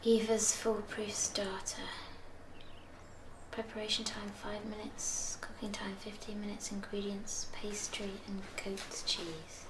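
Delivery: very soft, hushed read-through of a recipe; under the breath, barely voiced; whispered recipe reading. Murmuring a recipe to herself.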